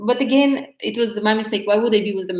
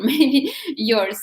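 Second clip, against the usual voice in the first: laughing tease; 5 semitones higher than usual. Real, not acted. Teasing blame after a laugh.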